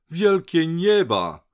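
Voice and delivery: high, loud, drawn-out exclamation of astonishment; okrzyk doktora. A narrator's reading. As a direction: cry out in shock, stretching the words. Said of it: "zakrzyknął doktor". (głośny, przeciągły okrzyk zdumienia)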